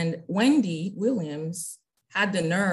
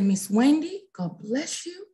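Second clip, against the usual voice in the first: sweetly gentle, a little higher; soft-spoken; 8 semitones higher, slower than usual. Retold or imitated. Wife answering a critic online, softly kind and shady. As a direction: kind but with a hint of shade. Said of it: "she was so soft-spoken".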